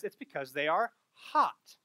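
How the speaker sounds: spoken slowly, meaning the weather is hot; calmly explains it's hot outside; slow, plain explanation. Retold or imitated. Husband slowly explains to his wife it is hot, plainly. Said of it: "he says".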